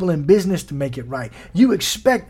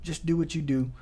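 hushed, calming reassurance; quiet and soothing; inside voice; 10 dB quieter than usual. Acted. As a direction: speak very softly, like a voice within. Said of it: "It's an inside voice that says".

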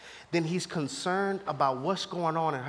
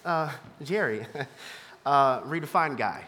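calm voice of God; 6 semitones lower than usual. Retold or imitated. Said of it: "God was like".

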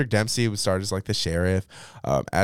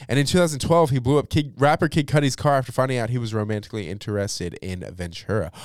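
higher and louder, agitated retelling; worked-up reread; 4 semitones higher, 5 dB louder than usual. Real, not acted. Rereading news about a rapper to listeners, agitated and loud. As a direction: say it again like you can't believe it.

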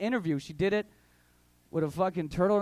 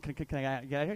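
quiet, halting repeats of can; stuttered plea; 6 semitones lower, 6 dB quieter, faster than usual. Shown as a demonstration. Student stammering to the teacher for a way out, quiet and halting. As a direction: stammer it out like a nervous kid. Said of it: "I stuttered just like that".

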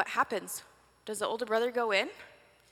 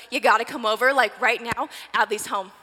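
excited invitation; 6 dB louder than usual. Pretend. Calling friends to a party.

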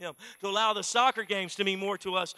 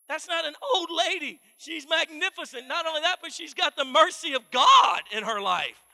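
indignant scolding; 3 semitones higher, 6 dB louder than usual. Acted. Pastor scolds imagined husband.

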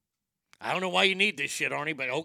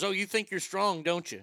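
grandma's taunt; 4 semitones higher than usual. Retold or imitated. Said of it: "She goes".

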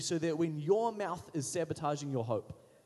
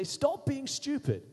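blunt rebuke; 3 semitones higher, slower than usual. Retold or imitated. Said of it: "whack me around the head and say".

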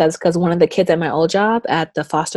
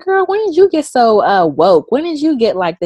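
high, louder amazed teasing; mock amazed; 7 semitones higher, 5 dB louder than usual. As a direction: tease her in disbelief. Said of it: "And I was like".

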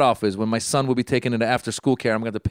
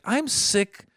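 fed up; 5 semitones higher, much slower than usual. Retold or imitated. Retold fed-up inner outburst.

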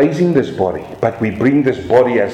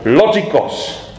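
slow, careful Greek "Logikos"; deliberate attempt at a Greek accent; slower than usual. Shown as a demonstration. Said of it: "say that in a good accent".

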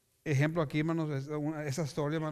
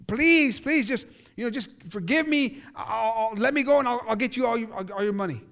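begging; 3 dB louder than usual. Retold or imitated. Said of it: "He's begging".

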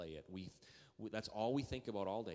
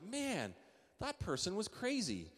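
mock disbelief; 9 semitones higher than usual. Retelling his thoughts after the driver left.

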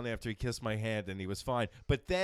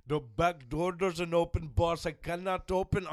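driver impression; 4 semitones higher, 5 dB louder, slower than usual. Driver apologizing at trunk.

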